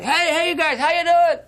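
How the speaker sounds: high, loud call to the far shore; calling out across a lake; mock yell across the lake. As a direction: holler it over the water like a kid scout. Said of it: "you could yell over to these guys".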